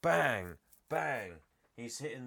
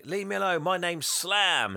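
put-on kid's voice; 8 semitones higher, 5 dB louder than usual. Kid Sam defying bullies.

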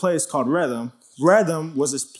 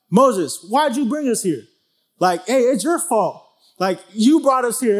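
mock blaming complaint; 5 semitones higher than usual. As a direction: point the finger hard at him. People blaming Moses for no water.

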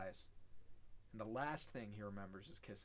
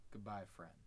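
quiet farewell; 3 semitones lower, 6 dB quieter than usual. Retold or imitated. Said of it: "he says".

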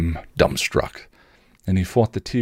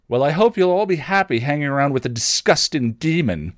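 sneering; 7 semitones higher than usual. A narrator's reading. Cousin Beth sneers at the family's new friends, pitched high. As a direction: look down your nose at them. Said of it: "Tara's cousin Beth sneered".

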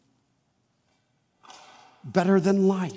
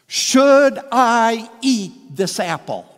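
tempted voice; 3 semitones higher, 8 dB louder, slower than usual. Acted. Voicing temptation's inner question.

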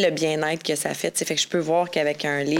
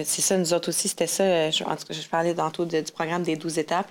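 speaking away from the microphone; drifted off mic, voice distant; far from mic. Real, not acted. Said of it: "Tu t'éloignes, mon ami".

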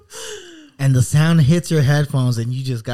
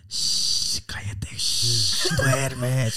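lullaby hush; 2 semitones lower, 4 dB quieter, much slower than usual. Pretend. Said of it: "It's like".

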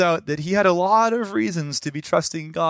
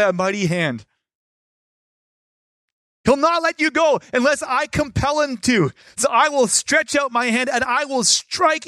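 voice of God; 5 semitones higher than usual. Acted. Preacher quoting God's words to Moses, proclaiming. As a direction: thunder it like God speaking. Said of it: "As God had already said".

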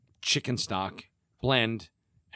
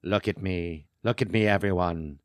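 Vincent Price impression; 3 semitones lower than usual. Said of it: "You win Vincent Price impression contest".

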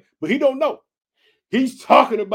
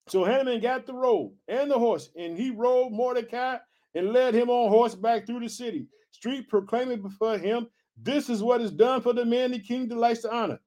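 scripture reading; 4 semitones higher than usual. A narrator's reading. Reads scripture aloud.

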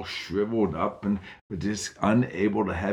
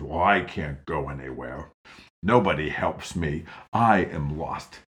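low, louder grumble; grumbling; 4 semitones lower, 3 dB louder than usual. Acted. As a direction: grumble it like a sour old man. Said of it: "the man grumbled at her and said".

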